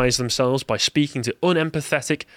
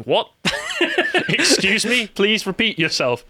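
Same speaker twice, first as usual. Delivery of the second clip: high-pitched mock incomprehension; baffled viewers; 7 semitones higher, slower than usual. Viewers failing to understand a BBC speaker, high and baffled. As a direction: ask in a raised pitch, as if baffled. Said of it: "everybody would be going".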